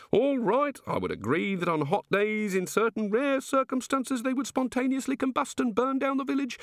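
hint of an indignant, hurt god; aggrieved god. A narrator's reading. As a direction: grumble about ungrateful villagers. God character voiced in reading.

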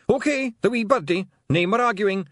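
loud high Scots battle bark; bully them into line and charge; fierce Scots pixie shout. Acted. Pixie chief threatening, rallying.

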